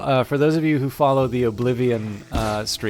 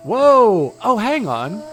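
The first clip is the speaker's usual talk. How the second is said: surprised; 9 semitones higher, 5 dB louder, much slower than usual. Real, not acted. Sudden find in the game.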